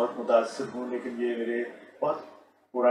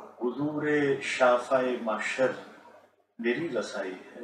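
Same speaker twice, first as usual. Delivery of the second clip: stately nazm recitation. Shown as a demonstration. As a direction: recite each line with dignity. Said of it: "میں آپ کی خدمت میں دو قطعات".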